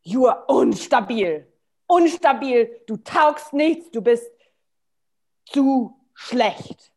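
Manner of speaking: stern German inner critic; firm, judging voice in the head; German rule-making voice. Acted. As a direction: scold in German, deliberately. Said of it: "even voices come in like".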